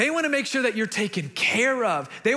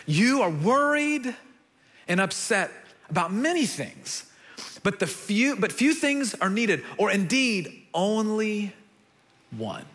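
compassionate. Acted. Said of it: "you can sense the compassion".

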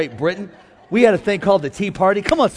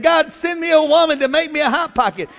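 mock crying prayer; 10 semitones higher, 6 dB louder than usual. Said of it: "Somebody's crying saying".

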